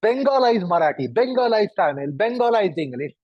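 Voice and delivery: "Bengalized" with rounded vowels, as if round sweets fill the mouth. Shown as a demonstration. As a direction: round the lips on each "Bengalized". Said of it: "mouth is rounded because there are round objects".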